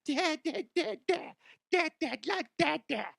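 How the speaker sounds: put-on high squealing child voice, begging and giggling; excited kid. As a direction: play an eager little kid calling for dad. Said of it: "they're gonna be like".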